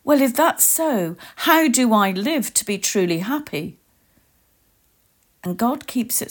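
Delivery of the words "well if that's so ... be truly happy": lightly acted wonder, pitched up at the start; delighted innocence. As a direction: ask with a touch of innocent, eager expectation. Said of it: "in a delighted innocence and expectation".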